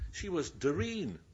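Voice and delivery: Doreen said slowly the other way, with a drawn vowel; local Doreen. Shown as a demonstration. Preacher contrasting the two Yorkshire Doreens. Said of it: "But she wasn't".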